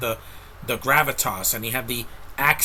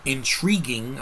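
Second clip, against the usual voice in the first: slow, drawn-out delivery; Morbius delivery; slower than usual. Retold or imitated. Film reviewer borrowing Morbius's way of saying intriguing, slowly drawn out. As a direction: stretch the word like Morbius. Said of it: "I'll say like Morbius, the way he said that".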